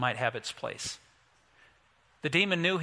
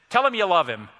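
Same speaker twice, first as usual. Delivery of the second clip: louder, mock fatherly order; lightly voiced dad laying down the law; a hint of a stern father; imitated stern dad; 3 semitones higher, 6 dB louder than usual. Dad orders scrapping brothers to reconcile.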